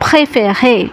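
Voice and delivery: slow, careful French; slow model sentence. Shown as a demonstration. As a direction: give each word room for learners.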